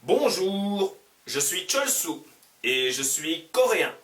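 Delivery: two voices read the dialogue very slowly; slow learner dialogue. Acted. Two characters at the café, slow and clear.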